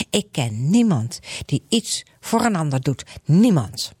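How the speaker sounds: lightly voiced stubborn refusal; bitter Grietje. Grietje refusing help, lightly voiced and bitter. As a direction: dig in and turn down help. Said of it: "blijft zeggen".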